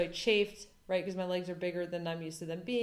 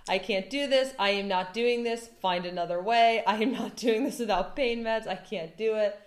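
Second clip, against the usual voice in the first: frantic, pleading, louder, half laughing; hysterical pleading; 3 semitones higher, 5 dB louder than usual. Retold or imitated. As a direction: beg for another way in a panic. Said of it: "I am hysterical at this point".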